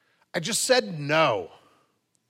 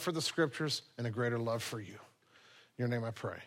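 soft, hushed pastor's prayer; closing prayer; 4 semitones lower, 6 dB quieter than usual. Acted. Pastor praying for the congregation before worship songs, softly reverent. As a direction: pray quietly to the Lord, reverent.

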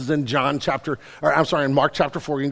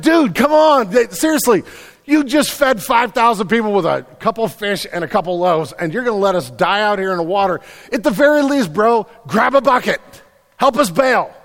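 loud, high-pitched indignant shouting; exasperated acted plea; 7 semitones higher, 10 dB louder than usual. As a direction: shout at a sleeping friend to help, exasperated. Disciples angrily wake Jesus in storm.

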